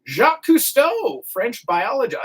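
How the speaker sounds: Cousteau's name pops up high by accident; voice jumps high. Real, not acted. Radio host reading birthdays, voice jumps up high. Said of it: "why my voice went up so high there".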